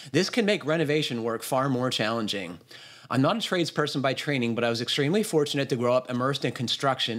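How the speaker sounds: steady read-aloud voice; reading a listener's email. Acted. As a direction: read the letter out in full, evenly paced.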